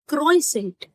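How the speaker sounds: क्रोइसेंट again as kroy-sent, t sounded; wrong pronunciation. Shown as a demonstration. Teacher repeats the wrong version students hear. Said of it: "ये दोनों ही pronunciations actually गलत है".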